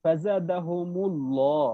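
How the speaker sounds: slow, drawn-out ফাজাদাহুমুল্লাহ with heavy lam; ফাজাদাহুমুল্লাহ recited very slowly; careful recitation. Shown as a demonstration. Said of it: "ল উচ্চারণ আসতেছে".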